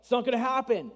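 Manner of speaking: building to a loud "No way"; retold Sarah's tired protest peaking loud; exasperated refusal. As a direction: push back hard, fed up and worn out. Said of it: "Sarah's like".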